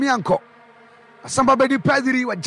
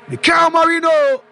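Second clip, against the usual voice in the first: higher, louder name with a falling end; excited name call; 4 semitones higher, 4 dB louder than usual. Real, not acted. Commentator to listeners hailing Mikel Merino, excited. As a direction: hail the scorer.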